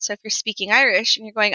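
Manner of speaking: normal talking voice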